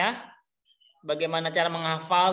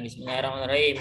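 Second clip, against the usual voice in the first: confirming recitation; 4 semitones lower, much faster than usual. Shown as a demonstration. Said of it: "Ya, benar".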